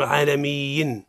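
"عالميين" with an extra "-yin" syllable; added ya. Shown as a demonstration. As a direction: wrongly split the long ii of "عالميين" into "mii-yin". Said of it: "ليس من أصل الكلمة".

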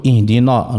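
اهدنا with نا darkened before the coming ص; thick, back final aa in اهدنا; early emphasis. Shown as a demonstration. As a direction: show the mistaken heavy نا. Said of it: "نبدأ نفخم الصاد".

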